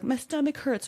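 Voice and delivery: high-pitched imitation of a little boy; complaining child. Son wanting closeness at night, plaintive little voice. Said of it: "my son's like".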